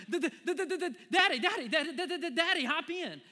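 high, loud, stuttering with cold; shivering child. Retold or imitated. Daughter calling dad into cold pool, shivering high and loud. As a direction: chatter the teeth calling for daddy.

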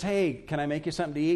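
quick, offhand polite offer; casual offer. Acted. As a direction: toss off the offer without pressing. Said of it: "they didn't really want to do this".

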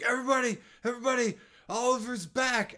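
high, loud call to the room; party announcement shout. Acted. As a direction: call out to a whole crowd. Acting Tommy stopping the party.

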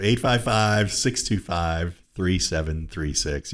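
slow, droning monotone. Shown as a demonstration. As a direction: read the number like a bored teacher. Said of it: "crazy I am by my monotone voice".

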